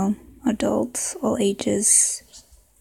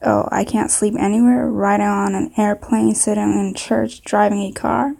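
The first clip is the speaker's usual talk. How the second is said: put-on southern accent. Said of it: "maybe a southern accent".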